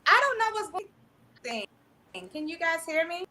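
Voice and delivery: choppy, cutting-out mic audio; breaking up over a bad connection; scrambled voice. Real, not acted. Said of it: "your mic is cutting you off".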